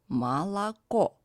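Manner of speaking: "Молоко" said as ma-la-KO; first two O's of Молоко as open A, last a full O; teacher's careful model of "Молоко", ma-la-KO; unstressed O as A. Shown as a demonstration. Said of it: "unstressed and pronounced as A".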